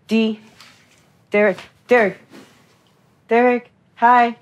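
a hint of a Cuban mama calling her son awake; Cuban mama style. Manager waking Derek for the crew, mild Cuban mama calling. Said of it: "do this Cuban Mama style".

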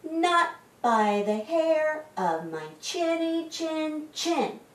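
high, slow piglet voice; little pig's high-pitched defiant refrain; shouting little pig. A narrator's reading. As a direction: refuse in a high, measured piggy voice. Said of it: "The little pig shouted".

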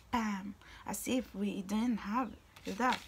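ordinary talk

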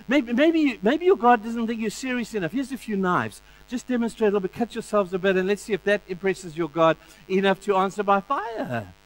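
high, sarcastic Elijah; sarcastic taunt. Retold or imitated. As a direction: keep goading them mockingly. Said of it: "facetiously and sarcastically says".

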